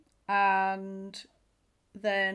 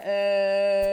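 blank hesitation; 9 dB louder than usual. Retold or imitated. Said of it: "and I'd be like".

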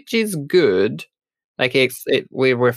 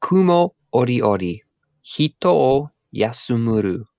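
terrible Japanese. Shown as a demonstration. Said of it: "Let's try with my terrible Japanese".

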